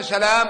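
سلام said salām, single l; سلام as "sa-LAAM"; light single lam. Shown as a demonstration. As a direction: pass lightly over the l in سلام. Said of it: "سلام بالتخفيف".

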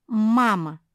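loud outraged "Mama!"; indignant cry. A narrator's reading. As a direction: burst out in protest. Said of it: "возмутилась Куки".

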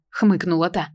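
usual speaking voice

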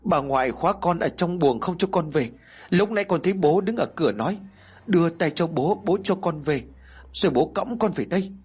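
put-on a child telling it through tears; talking while crying. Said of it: "Nó vừa khóc vừa nói".

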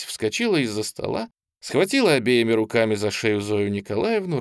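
ordinary delivery

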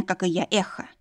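ordinary delivery

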